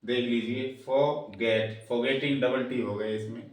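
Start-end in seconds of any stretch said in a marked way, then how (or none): 0.9-1.8 "फॉरगेट" slowly, weight on "गेट"; slow "फॉरगेट" stressed on its last syllable; stress on second syllable. Shown as a demonstration. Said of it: "इस पे stress लग रहा है".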